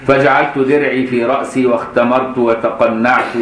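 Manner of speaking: slow deliberate hadith reading; slow recitation. Acted. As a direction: lay out each classical word slowly.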